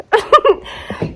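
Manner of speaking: short burst of high, loud laughter; amused laugh. Real, not acted. Woman laughing at her own story about her yard, amused laugh. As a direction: let out a quick high chuckle.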